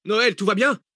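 high calling question, rising on bien; anxious call. A narrator's reading. Zach calling to Noël in the mill, anxious high call. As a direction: call out, fearing no answer. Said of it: "cria Zach".

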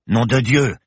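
loud shocked oath; swearing. A narrator's reading. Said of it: "jura le professeur".

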